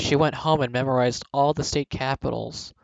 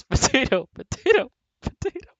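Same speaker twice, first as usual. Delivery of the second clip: rising, louder cries of potato; yelling potato; 13 semitones higher, 6 dB louder than usual. Acted. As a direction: yell potato from inside the sack. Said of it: "the blonde yells".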